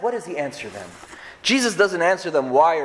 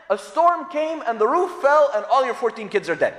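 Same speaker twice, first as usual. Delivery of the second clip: shouted climax; 5 semitones higher than usual. Acted. Climax of Job's disasters.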